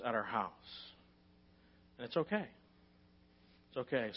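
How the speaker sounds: a hint of self-calming resignation. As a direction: settle yourself and release it. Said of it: "and I'm just like".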